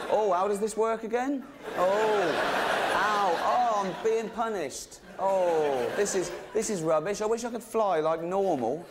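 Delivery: high, drawn-out mock moans; badly faked suffering. Snake crawls off pretending to be punished, badly faked suffering. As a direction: pretend it's a struggle, laying it on thick.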